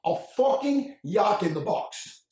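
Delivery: put-on slow, annoyed Argentine accent repeating the insult; a touch of Spanish in every word, said deliberately; mad Argentine accent. Argentine affiliate repeating his insult to a confused colleague, in a mild Argentine accent. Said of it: "his accent was strong".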